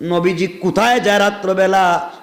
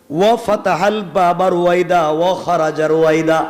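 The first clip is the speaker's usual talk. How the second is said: ordinary delivery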